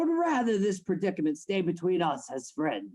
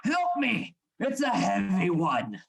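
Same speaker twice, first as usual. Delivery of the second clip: calling for help; 3 semitones higher, 4 dB louder than usual. Acted. Carrying a heavy body in.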